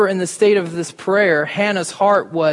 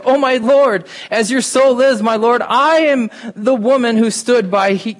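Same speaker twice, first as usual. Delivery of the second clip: pleading woman; 4 semitones higher, 4 dB louder than usual. Acted. Hannah pleads to Eli.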